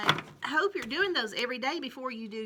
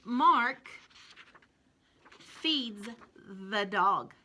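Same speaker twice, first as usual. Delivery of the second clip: slow reading aloud; much slower than usual. Shown as a demonstration. Teacher reading the sentence slowly with children. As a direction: read Mark feeds the dog word by word. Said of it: "I'll read it with you".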